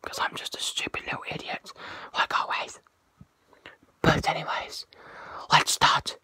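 loud whisper into the phone; stage whisper. Real, not acted. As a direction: whisper loudly, half-voiced. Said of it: "whispering very loudly towards my phone".

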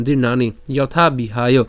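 slow, connected জীর্ণানি যথা বিহায়; joined up. Shown as a demonstration. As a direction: link জীর্ণানি যথা বিহায় as one phrase. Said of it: "একসাথে উচ্চারণ করবেন". (জীর্ণানি যথা বিহায় একসাথে ধীরে)

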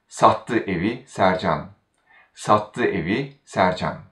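sattı carries the weight at the start; stress on sattı. Shown as a demonstration. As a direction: lean on sattı first. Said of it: "then the stress falls on the verb".

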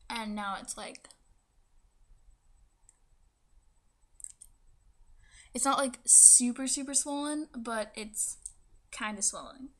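speaking with a fresh tongue piercing. Real, not acted. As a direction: talk around a swollen pierced tongue. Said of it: "this is gonna be my tongue piercing video".

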